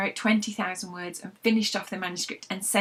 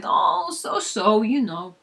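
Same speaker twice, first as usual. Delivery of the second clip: Frank's weary sigh; 4 dB louder, much slower than usual. Acted. Frank grumbles about life.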